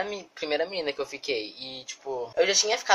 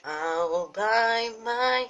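high mock bye; 6 semitones higher, much slower than usual. Mock farewell.

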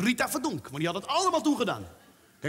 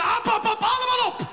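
high, loud sudden hap hap hap; jump-scare shout to startle; 11 semitones higher, 4 dB louder than usual. Acted. Storyteller startles the audience with a loud high shout. Witch eats children, climax.

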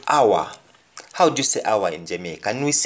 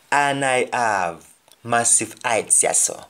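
Jamaican patois. Shown as a demonstration. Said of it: "another example is".

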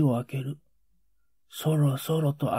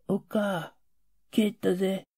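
hushed, gently calling out to mother; soft calling at the door; 3 semitones higher, 6 dB quieter than usual. Retold or imitated. Father softly calling his wife through the shut door, hushed. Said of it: "ちゃんはそっとこう呼ぶんだ。".

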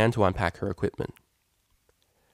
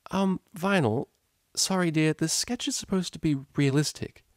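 higher, kindly teacher voice; friendly teacher; 8 semitones higher than usual. Acted. Teacher welcoming the cellist model, lightly voiced friendly mare. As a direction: greet them with easygoing warmth.

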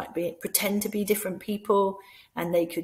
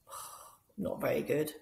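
softer sorry puppet; mild sad puppet; 4 semitones lower, 8 dB quieter than usual. Acted. Puppet telling the other it feels bad. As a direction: glum little puppet voice. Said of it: "dialogue between them".

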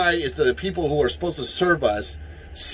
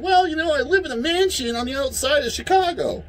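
much higher, snooty mocking voice; mock mayor; 9 semitones higher than usual. Ranter mocking the Chicago mayor's smug excuse. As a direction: play a smug out-of-touch mayor. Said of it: "instead of saying".

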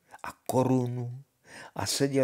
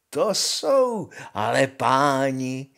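pomalý posměšný šepot; zašeptej to pomalu a posměšně; šeptem; 4 dB louder, slower than usual. Acted. Honza mocks the scribes. (Honza šeptá o písařích)

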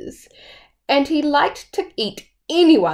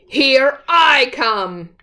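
slow, loud challenge; charging big goat; 4 semitones higher, 4 dB louder, slower than usual. Acted. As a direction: warn the troll as you charge.

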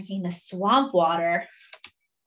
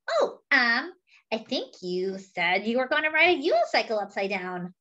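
cheeky monkey; 3 semitones higher than usual. Acted. Monkey teasing his elephant friend, lightly voiced and sly. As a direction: coax him like a sneaky little monkey.

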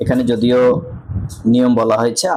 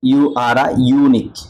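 slow demo reading; 3 dB louder, much slower than usual. Shown as a demonstration. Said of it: "ইউ উচ্চারণ হয়েছে".

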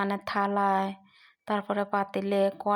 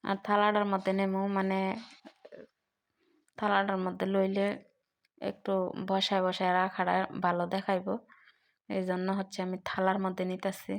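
talking with paan in mouth; chewing paan. Real, not acted. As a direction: mouth full of betel leaf. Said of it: "মুখের মধ্যে পান দিয়ে নিছি".

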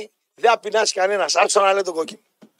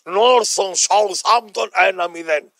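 very slow, drawn-out score announcement; mock results reader; 4 semitones lower, much slower than usual. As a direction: mimic someone reading out football results. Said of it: "λες τα αποτελέσματα". (κοροϊδευτική, αργόσυρτη εκφώνηση αποτελεσμάτων)

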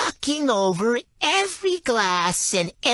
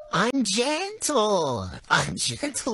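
soft, slow "I'm gentle"; 4 dB quieter, slower than usual. Pretend. Girlfriend says "I'm gentle" to her boyfriend, soft and slow. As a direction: stretch out "gentle" calmly and slowly. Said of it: "I'm nice about it".

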